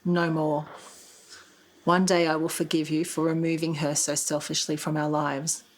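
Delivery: measured, even-toned reading of a written message; reading aloud. Real, not acted. Daughter reads her text confronting her father, evenly read aloud. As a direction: read it out evenly, with little rise or fall.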